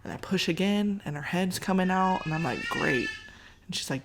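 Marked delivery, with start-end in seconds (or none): 2.7-3.1 much higher, squeaked out; squeaky sarcastic. Retold or imitated. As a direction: squeak it out in mock enthusiasm. Head coming out.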